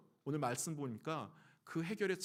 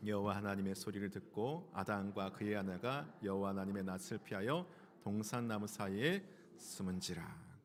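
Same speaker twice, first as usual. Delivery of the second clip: low, measured reading of the verse; scripture reading; 8 semitones lower, 3 dB quieter than usual. Acted. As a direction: read the verse solemnly. (성경 봉독하듯 낮고 차분하게)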